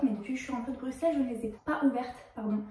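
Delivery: out of breath and rushing; fast, breathless, hurried words; essoufflé. Real, not acted. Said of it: "Je suis essoufflée". (essoufflée et pressée)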